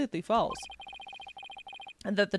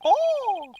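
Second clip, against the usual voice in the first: high, sudden surprised oh; surprised gasp; 13 semitones higher, 4 dB louder than usual. Real, not acted. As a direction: react in shock. Surprised reaction.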